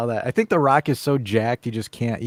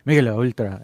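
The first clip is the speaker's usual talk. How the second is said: put-on Messi's Argentinian accent; 4 dB louder, faster than usual. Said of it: "he said it with his thick Argentinian accent".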